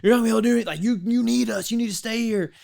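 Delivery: high-pitched mock alarm; scaremongering military voice. Military talking recruits out of leaving, mock scaremongering. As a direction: imitate the military warning you off leaving. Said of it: "They really make you believe".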